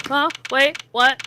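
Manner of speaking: snapping back, confused; startled confusion. Retold or imitated. Acting zoned-out confusion.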